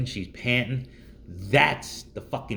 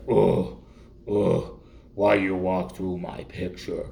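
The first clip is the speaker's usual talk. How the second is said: uptalk; slower than usual. Retold or imitated. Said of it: "Valley Girl impression ... for the guys".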